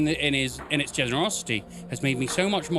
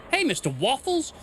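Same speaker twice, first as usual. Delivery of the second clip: hoarse raspy woman; 8 semitones higher than usual. Acted. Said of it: "A woman's voice, hoarse and raspy".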